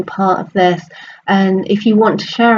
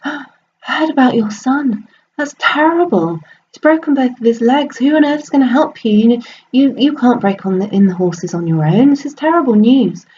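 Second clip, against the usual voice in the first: high, dismayed, fussing voice; sympathetic neighbour; 5 semitones higher than usual. Acted. Neighbour laments the son's broken legs to the farmer, high and dismayed. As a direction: sound aghast on his behalf.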